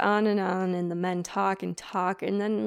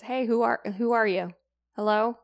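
louder nervous call into the dark; 5 dB louder than usual. Retold or imitated. Ichabod calling out to the silent rider, louder nervous call. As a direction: call out to a stranger far ahead.

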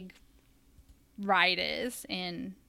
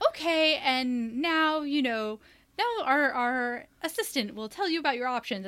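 show host; 5 semitones higher, 3 dB louder than usual. Retold or imitated. Wand show staff handing guests to the assistant, higher presenter voice. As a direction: imitate staff steering guests onward. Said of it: "And then they're like".

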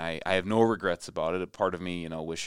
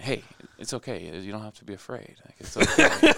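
teasing calm turning into laughter; mocking reassurance; 4 semitones higher, 10 dB louder than usual. Player teasing the opponents who slurred him, laughing. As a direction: comfort them playfully, then crack up. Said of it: "and then saying".

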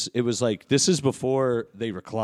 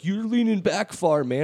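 mock whiny excuse; 8 semitones higher than usual. Kid's whiny excuse voiced high.

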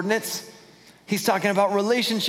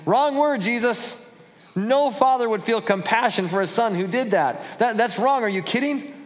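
mock-offended Pharisee objecting to Jesus; indignant Pharisees; 5 semitones higher than usual. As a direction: play the outraged religious critic. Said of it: "And the Pharisees are going".

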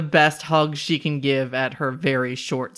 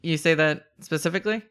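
put-on Boston accent. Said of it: "Reese trying to do a Boston accent".

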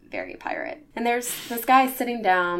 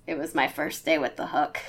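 put-on pirate accent; 4 semitones lower than usual. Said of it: "your pirate accent is spot on".

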